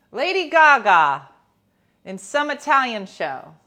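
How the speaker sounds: hammed-up awards host reading nominees; mock Oscars presenter; awards announcer.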